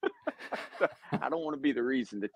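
squeaky high laugh on the word. Real, not acted. Laughing through punchline.

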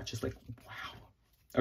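whispered, slow wow; hushed in wonder; breathless awe. Real, not acted. Admiring the era's photo cards, whispering in awe. Awed by the card.

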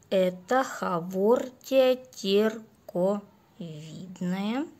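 slow, dragging zombie drone. Real, not acted. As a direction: drawl it out like a zombie. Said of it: "Что-то говорю как зомби". (медленный голос зомби)

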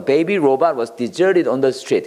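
slow, careful model sentence for learners; slow teacher read. Shown as a demonstration. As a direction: read it out slowly, word by word. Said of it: "model sentence".

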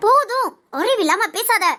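angry cutoff. Acted. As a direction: shut her up with a sharp slow enough. Cuts off friend's accusation. (கோபமாக நிறுத்துதல்)

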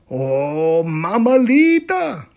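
slow, scared exclamation; frightened cry. Acted. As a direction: cry out at a scary shadow. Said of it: "cried Scapito".

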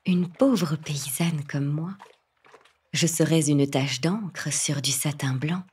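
trembling whisper. Acted. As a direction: whisper it humbly, afraid. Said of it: "d'une voix tremblante".

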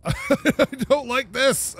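scared whine. Real, not acted. Nervous laughing repeat.

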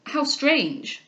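mildly acted astonishment; astonished. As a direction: exclaim in astonishment. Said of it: "cried the astonished Delvile".

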